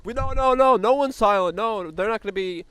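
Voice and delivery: hammed-up high silly voice; mock Paul impression. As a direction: squeak it out like a frantic rallying houseguest. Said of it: "and Paul's like".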